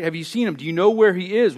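eager pleading plea; urgent asking. Shown as a demonstration. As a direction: push the question harder each time. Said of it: "the Magi is asking".

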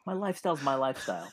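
defiant. Retold or imitated. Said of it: "And I'm like".

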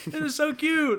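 high gushing mom voice; imitating mom. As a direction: gush like an excited mom. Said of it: "She'd be like".

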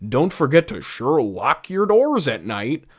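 lightly mocking tone, barely changed; mild mocking. Doctor Bell teasing Conan Doyle, lightly mocking. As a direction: tease the pun with a touch of mockery. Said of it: "he says mockingly".

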